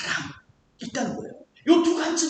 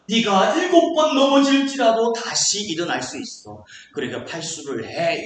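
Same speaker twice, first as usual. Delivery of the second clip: slow, weighty order, dropping lower at the end; demanding God; 4 semitones lower than usual. Acted. God as heard by self-centred reader, demanding order. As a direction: lay it down as a burdensome command. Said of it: "내 중심으로 한번 성경을 봐요".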